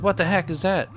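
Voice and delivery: high-pitched startled question; acted bewilderment. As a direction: play a bystander taken aback. Biker sees the coffin.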